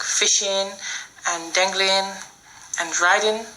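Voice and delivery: fishing, dangling, riding ending in a plain n; dropped final G's. Shown as a demonstration. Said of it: "don't pronounce the G's".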